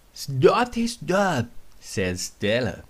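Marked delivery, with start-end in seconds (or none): 0.1-1.5 high, loud call to stop. Acted. Stella calls out to toys.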